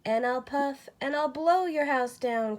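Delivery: wolf threatens the straw house, building to a cry. A narrator's reading. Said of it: "cried the wolf".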